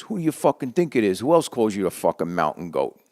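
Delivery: loud joking retort on the phone; mock indignant. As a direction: bark it back like an offended old friend. Voicing Pete, mock indignant on phone.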